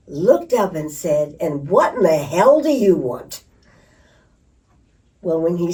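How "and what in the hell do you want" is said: louder, irritated bark up from the hole; a father annoyed at being bothered; frustrated snap. Retold or imitated. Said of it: "in his frustration".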